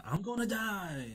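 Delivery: high-pitched mock wail, stretched out; Usopp. Sniper on a shaking bridge, mock-terrified. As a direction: imitate a panicked scream at moderate volume. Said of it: "Usopp screaming".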